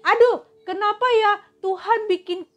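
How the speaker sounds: whiny complaining Israelites. Retold or imitated. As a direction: play the grumbling people, whining to Moses. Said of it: "mereka protes sama Musa".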